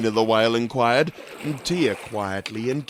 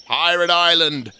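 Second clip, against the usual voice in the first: a bright call, a bit louder; storybook yell; 4 semitones higher, 5 dB louder than usual. A narrator's reading. Tia answering Michael, a light storybook yell. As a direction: call out the destination with gusto. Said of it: "yelled Tia".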